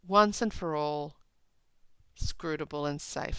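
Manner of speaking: slow, measured poem recital; deliberate reading of verse. Acted. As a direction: read the lines with weight. Reads poem lines aloud.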